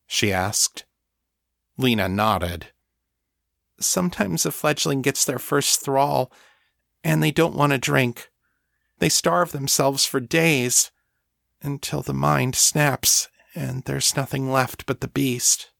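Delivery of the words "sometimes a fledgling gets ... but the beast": higher-pitched, measured thrall voice; haunted thrall. Acted. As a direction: explain the grim danger, pitched up. Narrator voices Lena.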